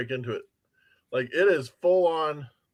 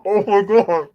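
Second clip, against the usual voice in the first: disgusted exclamation; 5 semitones higher, 8 dB louder than usual. Real, not acted. Tasting the durian peanuts.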